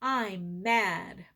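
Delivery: slow and steady, as a model to copy; calm breath phrase. Shown as a demonstration. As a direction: show the children how to say it. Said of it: "like this".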